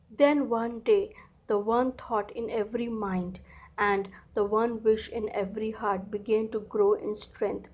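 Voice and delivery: slow, weighty storybook reading; story reading. Acted. Teacher reading the story to children. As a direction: read the story line slowly to the class.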